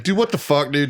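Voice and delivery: high-pitched, baffled plea to a buddy; exasperated complaint. Retold or imitated. Re-enacting his call for computer help, exasperated. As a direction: imitate a frustrated caller, voice lifted. Acted phone complaint to Justin.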